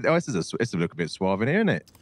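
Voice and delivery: lampoon a snooty diner, lightly; mocking posh voice. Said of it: "If you go to a posh restaurant".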